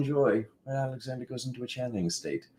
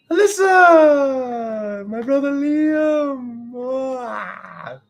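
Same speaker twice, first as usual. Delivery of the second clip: high, drawn-out excited call; 14 semitones higher, 9 dB louder, much slower than usual. Real, not acted. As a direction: cry out to greet him. Excited greeting of brother.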